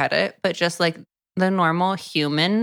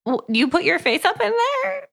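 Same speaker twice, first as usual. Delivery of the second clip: high, fast, laughing incredulity; laughing disbelief; 13 semitones higher, faster than usual. Retold or imitated. Friend mocking the hero's nose, high and laughing. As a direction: laugh through the question in disbelief.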